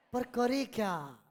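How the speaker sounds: slow, drawn-out line of dialogue; stretched theatrical question; dialogue delivery. Shown as a demonstration. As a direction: act it as a story character's line, unhurried. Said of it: "dialogue के अंदाज में बोले".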